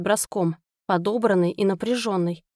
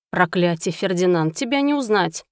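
surprised exclamation; 2 semitones lower than usual. Acted. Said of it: "воскликнул Ричард".

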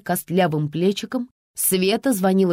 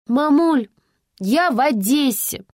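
high, loud call down the phone; 7 semitones higher, 3 dB louder, slower than usual. Acted. Daughter calls her mother from afar, shouting. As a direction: shout it down a bad line. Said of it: "прокричала Вика".

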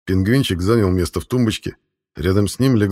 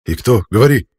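impatient demand; 2 semitones higher, 5 dB louder than usual. A narrator's reading.

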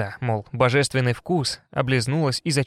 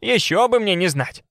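with a chuckle; 6 semitones higher than usual. A narrator's reading. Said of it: "со смешком проговорила Варя".

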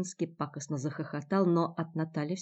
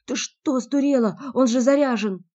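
higher, loud, alarmed yell; Andrey, grazed by a splinter, shouts at Natalya; shocked shout; 7 semitones higher, 9 dB louder than usual. Acted. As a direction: yell at her in disbelief.

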